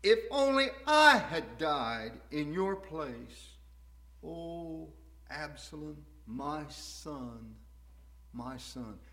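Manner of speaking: soft, hushed father's lament fading away; quiet grief. Acted. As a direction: breathe it out as a heartbroken whisper of loss. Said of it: "And David said".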